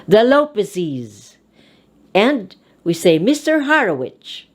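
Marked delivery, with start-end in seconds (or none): 0.1-1.4 "Lopezes" ending in a clear -iz; "Lopezes" said LO-pe-siz. Shown as a demonstration. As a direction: sound out the added syllable of "Lopezes". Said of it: "The E S is pronounced as".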